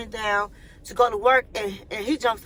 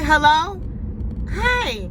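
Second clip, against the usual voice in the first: raised voice, calling into the intercom; 5 semitones higher, slower than usual. Retold or imitated. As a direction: call out a wary hello. Answering the doorbell intercom.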